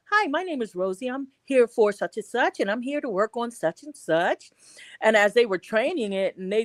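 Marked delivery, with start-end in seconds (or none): 0.1-4.5 lightly voiced formal script greeting, a bit higher; the textbook polite service intro; polite customer greeting. Mocking the corporate training greeting, a touch higher and polite. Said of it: "I would have been".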